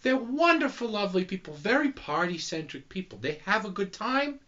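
put-on high-pitched comic German accent. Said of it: "doing a German accent".

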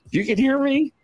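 mock shock. Retelling the moment he found his mic live, high and startled. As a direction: sound caught out, suddenly realizing. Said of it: "And I'm like".

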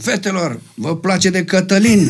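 put-on slow, drawn-out call to the girls; lightly hammed-up crowd-working mayor; mayor on the microphone. Mayor asks the girls from the stage, mock calling out. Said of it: "Se uită la mine așa".

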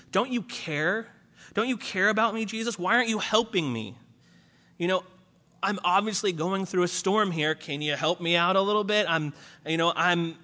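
a mock-frustrated believer whining for help; whiny accusing plea. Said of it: "we have that same attitude".

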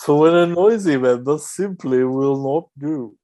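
breathy mock perfume ad read; camp perfume advert. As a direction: purr it like a glossy TV fragrance ad. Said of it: "such a camp perfume advert".

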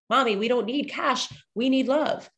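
a hint of an earnest child pleading with mom; imitated child. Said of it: "programming my child to think".

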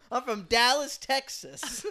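barge in demanding a slot; crazy guy voice. Pretend. Imagined crazy man in a bad shirt demanding stage time. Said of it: "crazy person ... going".

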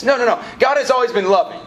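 lifted, emphatic no; emphatic correction. Real, not acted. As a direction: set them straight with energy. Pastor rebutting a misconception.

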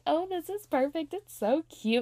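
high, bright squeal of delight; giddy. Retold or imitated. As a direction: gush like a thrilled fan. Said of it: "I was so giddy".

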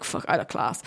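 breathy whisper to herself; whispered self-talk. Retold or imitated. Remembering a good prep day, whispering to herself. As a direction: whisper it like a private thrill.

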